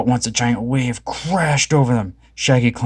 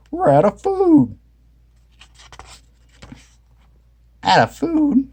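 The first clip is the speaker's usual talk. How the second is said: high, slow dismay; 4 dB louder, slower than usual. A narrator's reading. Friends realizing the food is gone, high dismay. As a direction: sound the alarm about food. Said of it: "said Daphne said".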